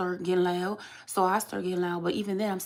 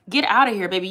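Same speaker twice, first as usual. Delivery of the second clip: dismissive; 5 dB louder than usual. Real, not acted. Dismissing commenter.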